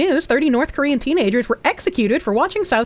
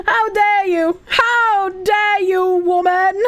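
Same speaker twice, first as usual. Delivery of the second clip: high, dramatic "how dare you"; hammed-up indignation; mock offended; 7 semitones higher, much slower than usual.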